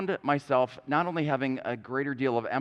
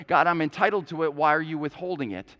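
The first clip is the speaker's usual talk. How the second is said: louder, indignant demand aimed at God; mock angry demand; 4 dB louder than usual. The pastor acts out a believer angrily demanding from God, mild mock anger. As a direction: voice the entitled complaint with some heat. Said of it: "a posture of anger".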